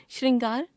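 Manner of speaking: श्रृंगार as "shringaar", high and rising; wrong pronunciation. Shown as a demonstration. Teacher showing a common error, श्रृंगार as rising "shringaar". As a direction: lift the end of श्रृंगार, shr plus i. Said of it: "अशुद्ध".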